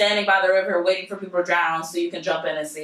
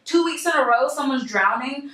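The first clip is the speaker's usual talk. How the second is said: higher, mock-astonished what, that's wild; incredulous; 6 semitones higher than usual. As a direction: act baffled it happened again. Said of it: "you're like".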